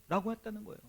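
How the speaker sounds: ordinary delivery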